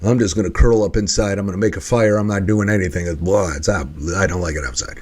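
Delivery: a lightly done gloomy grump; gloomy sulk. Retold or imitated. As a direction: mope about staying inside. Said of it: "your desired end is".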